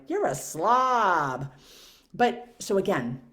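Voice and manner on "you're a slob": slow contemptuous judgment. Retold or imitated. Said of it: "somebody else looks at me and I'm like".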